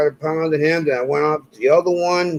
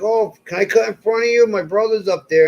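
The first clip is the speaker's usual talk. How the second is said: put-on higher, light kid voice; little kid asking; 6 semitones higher than usual. Little kid asking to cut the water slide line, mild kid voice. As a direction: ask sweetly like a small child. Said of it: "some little kid's like".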